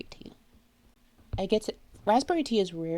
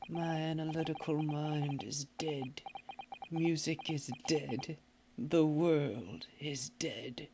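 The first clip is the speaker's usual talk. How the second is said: melodramatic despair; 4 semitones lower, 5 dB quieter than usual. Acted. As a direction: mourn everything, hushed.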